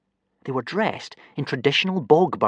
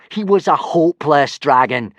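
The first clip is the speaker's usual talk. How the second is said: a touch of mockery, slightly raised; mocking; 4 semitones higher, 5 dB louder than usual. Snotlout lightly mocking Hiccup about his dragon. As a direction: jab at him lightly. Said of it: "mocked Snotlout".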